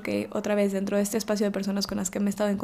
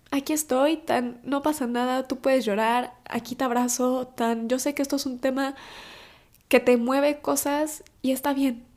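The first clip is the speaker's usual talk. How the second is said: gentle reassurance; 3 semitones higher than usual. Retold or imitated. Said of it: "lo sentí tan sincero".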